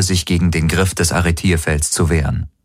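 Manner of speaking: ordinary delivery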